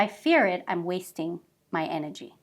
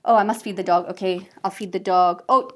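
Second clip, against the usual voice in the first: louder, hurried mum juggling chores; frazzled multitasking mum; 4 dB louder, faster than usual. Retold or imitated. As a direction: rattle off the chores in a busy fluster. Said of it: "A woman will be".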